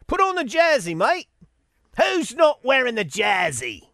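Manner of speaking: imitating a pushy Australian bloke; a lightly done Australian accent nagging teammates; mock Australian accent. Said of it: "he's Australian".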